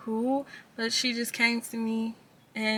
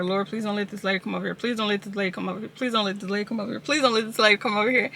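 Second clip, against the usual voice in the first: rushed, hushed plea to God; hushed frantic prayer; much faster than usual. Retold or imitated. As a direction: mutter a panicked prayer quickly, head down. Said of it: "I'm like".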